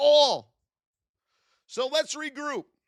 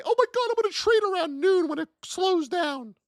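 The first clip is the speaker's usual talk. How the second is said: whiny trader; 8 semitones higher than usual. Retold or imitated. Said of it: "and say".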